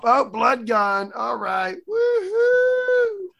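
high, slow, breezy and carefree; mock cheerful housewife. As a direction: toss it off like nothing happened. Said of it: "mocking the character cleaning up".

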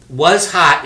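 "was" and "hot" both hit loud; loud stress on "was hot". Shown as a demonstration. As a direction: punch "was hot" as the key beat. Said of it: "it emphasizes that one line".

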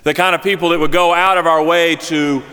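earnest sermon address to the congregation; preaching. Acted. Preacher urging the congregation after the story, earnest preaching. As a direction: exhort the church warmly.

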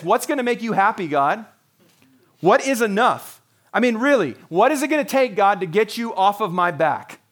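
mock resentful complaint to God; fed-up demand. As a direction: throw the question back at God, annoyed. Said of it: "saying it with a bad attitude".

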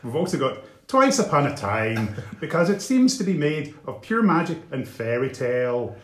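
playful hammed-up Northern Irish reading; Northern Irish accent. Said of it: "giving him one now".

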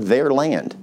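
"their" picked out before "land"; stress on "their". Shown as a demonstration. Preacher asks listeners to notice one word, stress on "their". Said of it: "notice that word".

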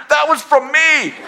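high, slow, laughing; sheepish laughing admission; laughing confession. Retold or imitated. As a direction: own it while cracking up.

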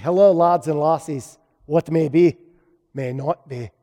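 lightly attempted Scottish accent. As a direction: greet them like a Scotsman, in a half-successful Scottish accent. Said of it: "I just wanted to do a Scottish accent".

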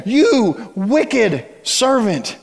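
slow, drawn-out rebuke from the master; the master condemns his servant slowly; stern master. Acted. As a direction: spell out each word to the wicked servant. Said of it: "his master summoned him and said to him".

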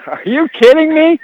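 high, laughing are you kidding me; laughing disbelief. Real, not acted. Announcer reacts laughing, much higher.

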